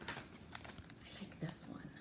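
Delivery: slow hushed whisper. Real, not acted. Teacher repeating her favorite to the child, slow whisper. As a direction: say it slowly like a secret.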